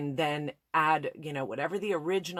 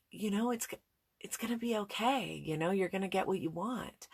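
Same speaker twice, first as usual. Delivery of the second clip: loving reassurance; 4 semitones higher, 3 dB quieter than usual. Retold or imitated. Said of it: "in a really loving, trying to help way".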